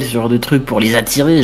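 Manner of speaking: ordinary talk, nothing marked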